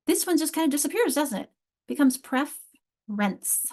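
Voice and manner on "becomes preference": "preference" said slowly as pref-rence; two-syllable demo. Shown as a demonstration. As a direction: say "preference" with the middle syllable gone. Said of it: "that syllable kind of disappears".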